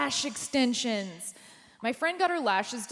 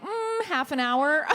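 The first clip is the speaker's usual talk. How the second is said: laughing answer; 5 semitones higher, 4 dB louder, slower than usual. Retold or imitated. Deadpan answer through laughter.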